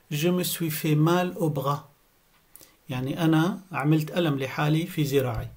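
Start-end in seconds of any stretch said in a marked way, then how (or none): 0.1-1.8 slow, carefully spaced sentence; slow clear model. Shown as a demonstration. Teacher modelling a doctor phrase for learners, slow. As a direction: lay each word out for the class. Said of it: "هيك بتنقال بهالطريقة".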